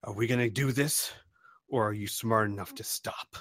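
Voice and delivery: a mild robotic menace, half-whispered at the end; angry robot voice. Acted. Hint of an angry robot at the Brotakill. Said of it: "in a very angry robotic voice".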